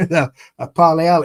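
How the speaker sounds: imitating a Polish waitress; Polish accent. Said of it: "in a Polish accent".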